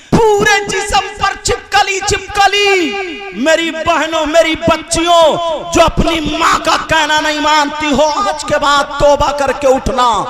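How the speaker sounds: preaching at full force. Acted. Preacher warning the girls to repent, fiery shouting. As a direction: thunder the warning at the listeners.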